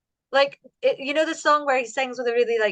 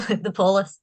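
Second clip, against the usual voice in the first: laughing; 3 semitones lower than usual. Real, not acted.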